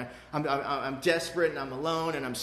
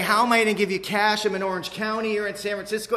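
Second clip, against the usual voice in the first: imitating mom; 5 semitones higher, 6 dB louder than usual. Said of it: "She's like".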